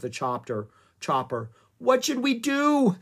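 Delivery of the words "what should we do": high, loud, drawn-out plea; desperate cry. A narrator's reading. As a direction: cry out helplessly, stretching it. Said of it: "Annie cried".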